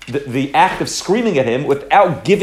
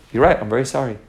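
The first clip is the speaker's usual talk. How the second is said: calm apology. Retold or imitated. Brother apologizes instead of screaming back.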